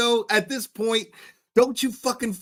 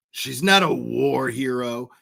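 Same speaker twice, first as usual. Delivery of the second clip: mocking Vinny; 4 semitones lower than usual. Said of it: "why did you minimize college professor".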